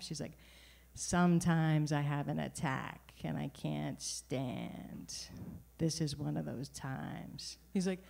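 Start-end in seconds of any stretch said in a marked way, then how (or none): 0.9-7.6 slow, deliberate New York mom; mom's New York accent. Retold or imitated. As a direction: spell it out slowly to the clerk. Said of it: "which I like to mimic".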